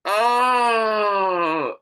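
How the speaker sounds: loud, pained cry of disbelief; a loud exasperated yelp. Real, not acted. Exasperated outburst at Dr Phil's claim.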